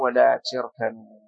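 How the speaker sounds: تركنوا with an "i" after the t; kasra reading. Shown as a demonstration. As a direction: say تركنوا as "tirkanu". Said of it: "إذن فقرأوا".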